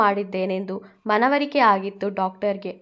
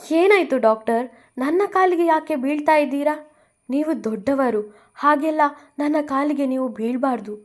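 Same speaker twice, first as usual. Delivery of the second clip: higher, flustered questions; shocked protest; 5 semitones higher than usual. Acted. Bhuvi stopping the doctor falling at her feet, shocked. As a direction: stop an elder bowing to you.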